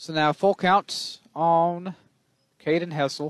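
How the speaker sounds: sudden country twang accent. A baseball announcer calls a full count, in a sudden country accent. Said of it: "I just had a country accent all of a sudden".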